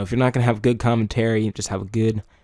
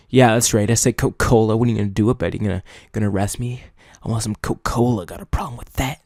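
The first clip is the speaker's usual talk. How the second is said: playful confrontational challenge; put-on cocky comeback; mock defiant; faster than usual. Shown as a demonstration. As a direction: own the slip as if daring someone to object. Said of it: "emphasize that you said something wrong".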